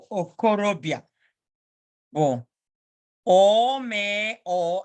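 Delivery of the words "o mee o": slow, drawn-out letter-by-letter spelling; spelling demo. Shown as a demonstration. Teacher showing the class how to spell, slow and drawn-out. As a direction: spell it out slowly, each sound held long. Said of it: "how to do spelling".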